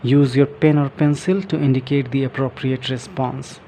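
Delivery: slow, careful reading from the book; reading aloud. Shown as a demonstration. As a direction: read each phrase out slowly for learners. Reading book text aloud slowly. (किताब से धीरे-धीरे पढ़ना)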